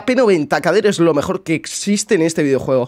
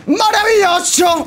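high, slow drawn-out "¡Maravilloso!"; exultant; 11 semitones higher, slower than usual. Real, not acted. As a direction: stretch "¡Maravilloso!" up high in delight. Same word repeated, now exultant.

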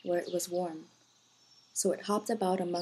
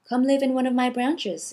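inviting; 5 semitones higher, 9 dB louder than usual. A narrator's reading. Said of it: "invited the spruce tree".

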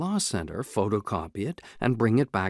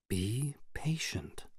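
whispering; 10 dB quieter, slower than usual. A narrator's reading. Alone in Chance's office, hiding.

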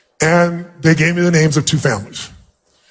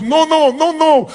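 very high, emotional refusal; imitated insistent woman; 11 semitones higher, slower than usual. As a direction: play an overjoyed woman refusing to believe it. Imitating woman refusing his explanation.

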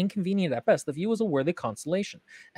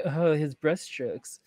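drawn-out, slightly snide art critique; slow mock critique with a touch of snark; a little snide; 4 dB quieter, much slower than usual. Nitpicking one of the paintings, a little snide. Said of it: "a little bit shitty about one of 'em".

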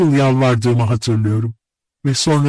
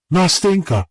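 high, emotional cry of her name; uncontrolled outcry; 8 semitones higher than usual. A narrator's reading. Narrator finally bursts out to Nastenka, crying her name. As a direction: call out as control slips. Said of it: "duygularımı kontrol edemeyerek bağırdım".

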